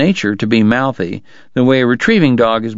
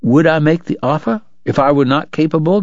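indignant cry; 4 semitones higher than usual. Acted. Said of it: "Doc cried".

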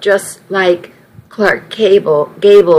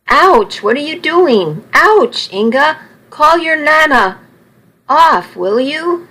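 high, pained yelps as the cane lands; yelping in pain; 7 semitones higher than usual. Acted. Charlie, whacked by Nana's cane, yelps in high pain. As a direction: cry out ouch, half laughing, half hurt.

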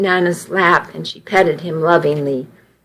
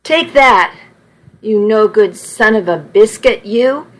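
feisty scolding. Acted. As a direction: scold him with each whack. Nana whacking Charlie with cane.

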